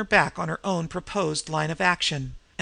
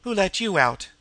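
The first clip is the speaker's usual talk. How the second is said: jeering; 5 semitones higher, 5 dB louder than usual. A narrator's reading. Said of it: "jibed the smaller".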